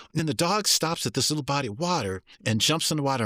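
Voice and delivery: high, animated tall-tale telling; storytelling to kids. Pretend. Teacher spinning a tale to captivate the kids, animated. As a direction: spin a wild yarn for wide-eyed children.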